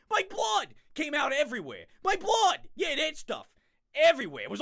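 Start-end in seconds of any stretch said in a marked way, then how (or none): 2.0-2.7 loud, slightly higher hammed-up cry; mock cry. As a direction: cry out theatrically.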